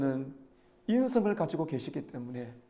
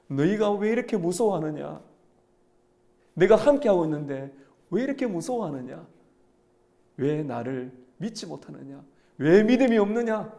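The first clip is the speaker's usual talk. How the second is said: loving rebuke; 3 semitones higher, 6 dB louder than usual. Acted. Jesus rebuking his frightened disciples, loving reproach. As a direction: reprove them firmly but lovingly, pressing each question. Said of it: "사랑의 책망을 하셨습니다".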